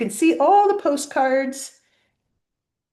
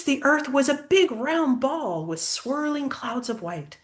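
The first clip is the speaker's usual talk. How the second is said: lilting rhyming storybook read; reading to a child; 2 semitones lower than usual. A narrator's reading. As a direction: read the verses aloud to a little one. Reads rhyming picture book aloud.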